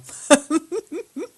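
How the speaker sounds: a short, high burst of laughter. Real, not acted. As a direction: laugh out loud at the joke. Laughs at the chat.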